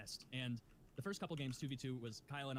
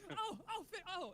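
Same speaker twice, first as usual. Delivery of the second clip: dismayed oh. Retold or imitated. And it's like.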